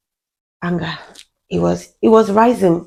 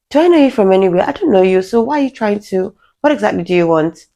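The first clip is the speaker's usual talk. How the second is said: higher-pitched, mildly indignant questioning; annoyed confrontation; 4 semitones higher than usual. Retold or imitated. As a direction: challenge a pestering stranger, mildly exasperated. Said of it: "it got really annoying".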